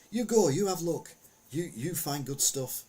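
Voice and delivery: a hinted foreign shopkeeper waving you in; imitating shopkeeper. Shopkeeper voiced in retold story.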